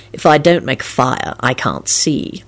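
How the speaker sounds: low, slow and easygoing; agreeable. A narrator's reading. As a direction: shrug it off agreeably. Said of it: "Lupin responded agreeably".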